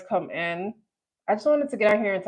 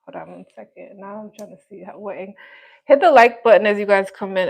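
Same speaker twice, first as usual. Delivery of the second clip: choppy broken-up stream audio; glitching robot. Real, not acted. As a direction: voice cutting out like a robot. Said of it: "Now I sound like a broken robot".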